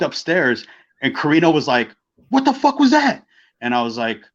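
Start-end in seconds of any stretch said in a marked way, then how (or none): 2.3-3.3 much higher, squeaky imitation of a stunned friend; incredulous mock outburst. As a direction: blurt it high, imitating total disbelief. Carino's stunned reaction, acted out.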